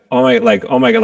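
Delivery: high, stunned Oh my God; shocked gasp. Retold or imitated. Lizzie hearing the Grammy news, shocked and high. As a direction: let the shock catch you mid-phrase. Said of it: "like, shock".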